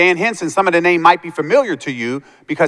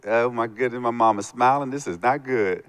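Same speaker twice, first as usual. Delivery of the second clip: much softer, worried murmur to yourself; nervous inner thought; 5 semitones lower, 9 dB quieter than usual. Retold or imitated. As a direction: dread creeping in under your breath. Nervous inner thought, mom smiling.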